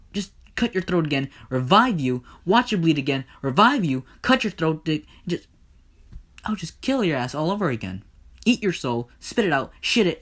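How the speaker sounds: threatening rant. Acted. Hades continues his threats.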